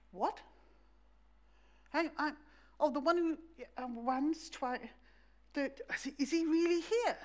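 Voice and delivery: can't get the words out from surprise; flustered disbelief. Retold or imitated. Disciples flustered at recognizing Jesus.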